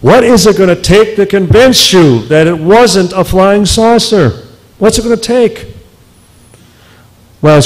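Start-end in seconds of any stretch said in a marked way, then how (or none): 0.0-5.7 higher-pitched, exasperated retold yell; imitated yelling. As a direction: act out an angry caller demanding an answer, voice raised in pitch. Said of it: "call him up and yell at him".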